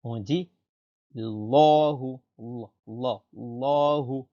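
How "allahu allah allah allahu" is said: Allahu with a heavy, rounded, dark la; full-mouthed lam. Shown as a demonstration. Teacher drilling the name of God, full-mouthed Allahu. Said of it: "on dit la bouche pleine".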